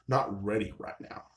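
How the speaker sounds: slow mocking repeat of an excuse; deadpan echo. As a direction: echo the brush-off slowly, unimpressed. Echoes her excuse back, unimpressed.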